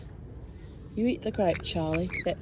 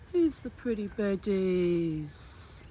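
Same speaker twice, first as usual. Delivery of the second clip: slow, lower drawn-out question; slow low coo; 3 semitones lower, slower than usual. Acted.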